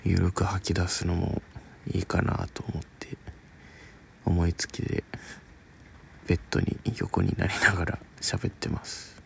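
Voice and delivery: talking while lying in bed; relaxed, lying-down speech. Real, not acted.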